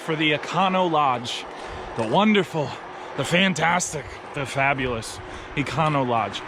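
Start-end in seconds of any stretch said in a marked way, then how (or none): 2.0-6.4 sarcastic. Real, not acted. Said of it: "I say that with a lot of sarcasm".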